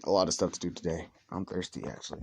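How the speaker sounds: winded, low and tired; out of breath. Real, not acted. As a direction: talk while catching your breath. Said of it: "I'm out of breath".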